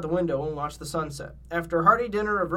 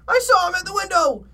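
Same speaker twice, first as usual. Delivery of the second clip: high, loud cartoon alarm; cried out; 12 semitones higher, 7 dB louder than usual. A narrator's reading. Shaggy insists to Fred he saw it, high frightened cry. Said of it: "cried Shaggy".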